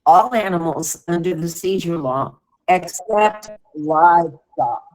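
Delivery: distant speakerphone sound; phone speaker. Real, not acted. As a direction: caller on a breaking line. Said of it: "Yeah, you're cutting out".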